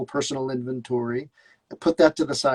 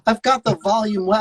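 higher-pitched mock exasperation; exasperated complaint; 8 semitones higher than usual. Student retelling his complaint to wife, exasperated. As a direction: retell a frustrated viewer's gripe, pitched up.

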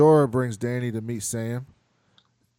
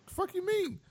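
mock outrage; 6 dB quieter than usual. Outraged quip.

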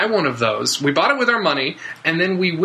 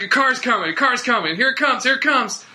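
excited lookout call; 7 semitones higher than usual. Retold or imitated. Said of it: "where they'd be like".

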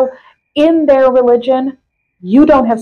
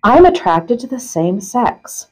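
measured, emphatic reading voice; article read-aloud; slower than usual. Acted. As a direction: read the question and answer out carefully. Reads article aloud to co-host.

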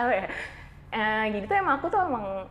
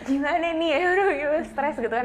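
retold near-tears panic; 7 semitones higher, 4 dB louder than usual. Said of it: "aku pengen nangis kan".

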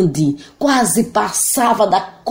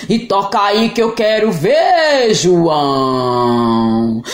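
booming monster; much slower than usual. Acted.

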